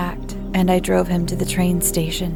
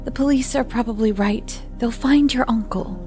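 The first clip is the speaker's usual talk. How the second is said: calm; 5 semitones higher, 7 dB quieter than usual. Acted. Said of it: "I tried to keep my voice calm".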